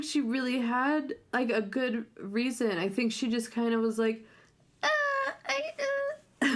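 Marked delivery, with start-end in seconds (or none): 4.8-6.6 halting, wordless hesitation; mock stammering. Retelling a bride with no good reason, mock stammering. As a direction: stall as if groping for an excuse. Imitating her lack of a reason.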